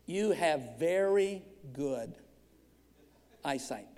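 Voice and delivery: low, slow and soft, spaced out; deadpan punchline. Real, not acted. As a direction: deliver the joke with mock gravity.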